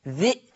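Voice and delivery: ذي cut short by a glottal stop; short ذي stopped in the throat; sounded hamza. Shown as a demonstration. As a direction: say ذي as "dhi'". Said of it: "سامعين صوتي؟".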